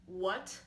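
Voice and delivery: "what" rising from low, like a question; second tone. Shown as a demonstration. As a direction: lift the pitch through "what". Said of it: "put on the four syllables for what".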